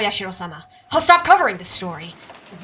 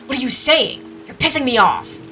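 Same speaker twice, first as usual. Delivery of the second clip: mildly heated retort; irritated; 4 semitones higher, 4 dB louder than usual. Acted. Accused of the slashing, answering with irritation. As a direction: show rising annoyance. Accused man turns angry.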